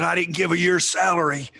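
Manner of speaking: high, loud indignant retort; loud, high scolding comeback from the coach; jumping all over me. Retold or imitated. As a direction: snap back as the old coach, loud and high. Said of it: "He just jumped all over me".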